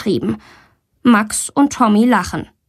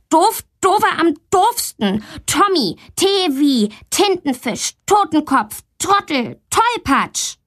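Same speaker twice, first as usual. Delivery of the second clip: much higher, gleeful string of insults; cheeky girl; 8 semitones higher than usual. A narrator's reading. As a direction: rattle them off to tease.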